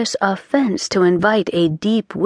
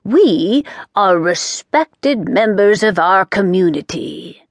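haughtily. Acted. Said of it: "said haughtily".

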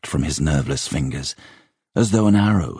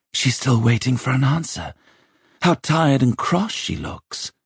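high-pitched youngster thinking to himself; uneasy lad's private observation; boy's inner thought; 9 semitones higher than usual. A narrator's reading. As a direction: think it as a cowed boy, pitched up.

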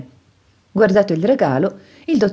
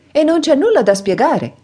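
bright, high, lively retort; cheerful reply; 11 semitones higher, 4 dB louder than usual. A narrator's reading. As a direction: answer gaily, brushing it off. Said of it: "replicò allegro Sasha".

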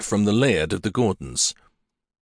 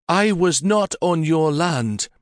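smooth reply; 8 semitones higher, slower than usual. A narrator's reading. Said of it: "Catherine said smoothly".

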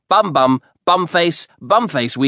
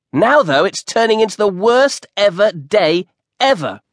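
put-on higher, fast, eager ten-year-old boy; excited boy; 6 semitones higher than usual. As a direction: rush it out like a thrilled kid on his birthday. Compton complains to Brian.

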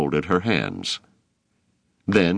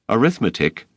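gasped; 5 semitones higher than usual. A narrator's reading. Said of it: "he gasped".

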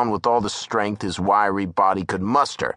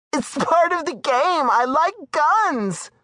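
high woman's voice, slow on the last words; matter-of-fact, almost defiant; Darla explaining; slower than usual. Acted.

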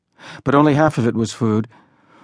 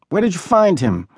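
put-on boy's voice; 6 semitones higher than usual. A narrator's reading. Boy questions newcomer in stable.

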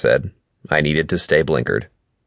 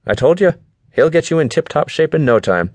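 high-pitched, pleased I-told-you-so; cheery friend; 11 semitones higher than usual. A narrator's reading. Friend vouches for the trainer, high and pleased. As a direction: put on a much higher friend's voice. Voices Alistair about the trainer.

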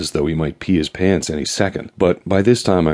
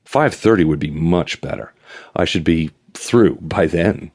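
coy suitor. Acted. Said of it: "to coy suitor once again".

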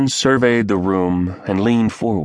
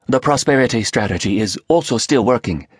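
put-on Korean accent; 5 semitones higher than usual. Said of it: "the Korean said".

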